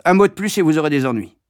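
fast, clipped-off threat; stern master's warning; curt threat. Acted. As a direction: shut the boy up.

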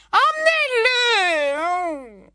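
slow, high, sugary command; wicked stepmother. Acted. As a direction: draw out a cruel order. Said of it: "dit Ombrage". (ordre lent et doucereux)

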